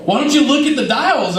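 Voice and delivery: a mild incredulous roommate. Retold or imitated. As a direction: roommate Swift asking dryly. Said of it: "Swift was like".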